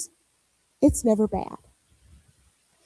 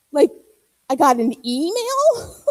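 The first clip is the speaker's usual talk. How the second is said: slow, incredulous question that dissolves into laughter; real laughter; disbelieving laugh. Real, not acted. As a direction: laugh at the absurdity. Laughing at the memory.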